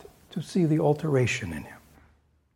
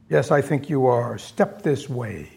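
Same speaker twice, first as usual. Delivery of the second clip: lower, slow menacing Scrooge; stern Scrooge; 3 semitones lower than usual. Acted. Scrooge summoning Bob, lightly voiced menace. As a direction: draw him in slowly. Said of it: "This is Scrooge".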